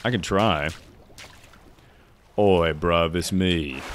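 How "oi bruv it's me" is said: rough attempt at British street slang accent. Shown as a demonstration. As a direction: put on a casual British accent. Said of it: "Can you do a British accent?".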